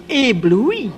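ébloui said the French way, stressed on the last syllable; ébloui with a French accent; French word. Real, not acted. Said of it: "as the French say".

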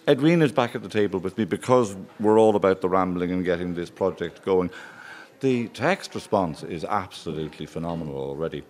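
talking with a mouth full. Real, not acted. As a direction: speak through a bite of butter. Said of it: "Excuse me talking to you with my mouth full".

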